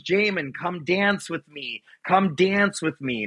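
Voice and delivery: coaxing mother. Retold or imitated. Young mother calls her son to dance, coaxing. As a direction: lightly voice a mother inviting, drawn out. Mother's dream invitation, acted.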